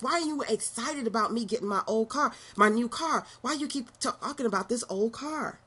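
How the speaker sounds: put-on a young Steve Harvey whining at his mother; frustrated young man. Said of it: "he was frustrated with her".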